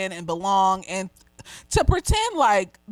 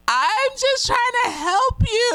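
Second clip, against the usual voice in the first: gentle pleading; 12 semitones higher, 4 dB louder than usual. Retold or imitated. Man gently begs the woman who snapped at him. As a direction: coax her kindly, like he meant it. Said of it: "And he was just so gently".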